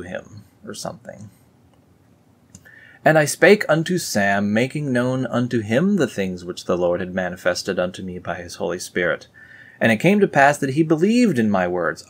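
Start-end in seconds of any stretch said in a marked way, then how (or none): 3.0-12.0 scripture reading. Acted. Reading the Book of Nephi aloud to viewers, solemn. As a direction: proclaim it like old scripture.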